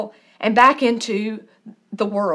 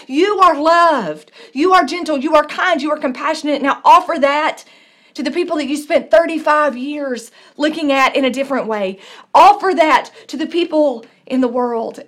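fervent blessing; 2 semitones higher than usual. Acted. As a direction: proclaim it with growing preacher fervour. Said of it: "a radical kindness and compassion that says".

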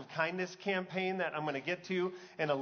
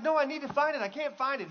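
higher-pitched mock panic; anxious dad; 8 semitones higher than usual. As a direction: imitate a dad anxiously hunting for something. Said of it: "He's having that anxiety".

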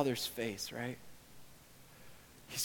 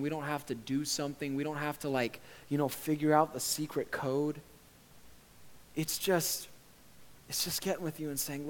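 sincere prayer. Real, not acted. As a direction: talk to God simply and humbly. Closing prayer.

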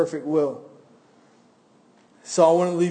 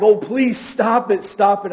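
mild acted outcry, raised then easing; pleading cry; 4 semitones higher, 3 dB louder than usual. Teacup pleading as it is painted, mildly acted cry. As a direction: beg with a touch of desperation. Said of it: "I cried".

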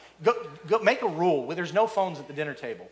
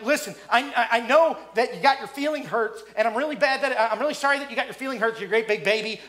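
mock fake apology; 4 semitones higher, 5 dB louder than usual. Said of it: "if we say things like".

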